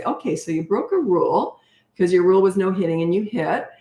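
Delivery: light lilting discipline tone; non-judgmental parent with a gentle lilt; lilty, no judgment. Shown as a demonstration. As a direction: state the broken rule without any anger. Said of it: "my tone, it's almost lilty".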